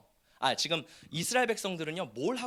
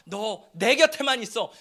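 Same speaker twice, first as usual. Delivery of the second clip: God's earnest call; 2 semitones higher, 6 dB louder, slower than usual. Acted. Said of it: "자녀 삼아서".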